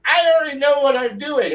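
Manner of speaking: mock the know-it-all players; hammed-up mocking of a smug player. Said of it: "everyone's going".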